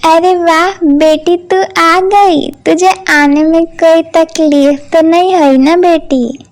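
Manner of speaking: fond mother greeting her daughter; happy welcome. Acted. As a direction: gush over the daughter. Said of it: "कामिनी बहुत ही खुश होती है". (खुशी से स्वागत करती माँ)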